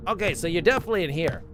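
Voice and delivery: slightly out of breath, hurried; breathless after running. Real, not acted. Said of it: "Of course I'd be out of breath".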